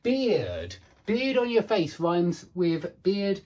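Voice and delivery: "Beard" slow with clear ear vowel; careful demo. Shown as a demonstration. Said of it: "this is the ear sound".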